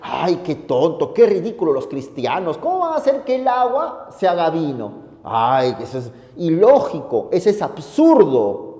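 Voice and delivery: sneering mockery, pitch jumping up; mocking scoffer. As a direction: scoff at the Christians like a smug know-it-all. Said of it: "esa gente se burla y dice".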